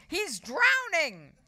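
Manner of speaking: high, loud, drawn-out cry; frantic boy's scream. A narrator's reading. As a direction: wail the alarm slowly and high. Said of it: "screamed Henry".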